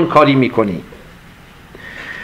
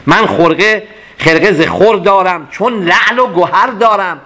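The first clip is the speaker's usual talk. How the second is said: slow, measured couplet; poem recitation; 2 semitones higher than usual. Acted. Teacher reciting the whole couplet to the class, measured. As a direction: recite the full couplet with weight.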